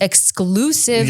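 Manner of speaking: slow, high, dramatic "Exclusive"; drawn-out promo announcer; announcer hype. Pretend. Hyped promo word.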